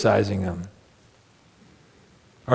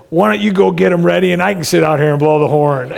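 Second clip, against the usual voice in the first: fed-up wife; 3 semitones higher, 4 dB louder than usual. Retold or imitated. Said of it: "pulled the door open and said".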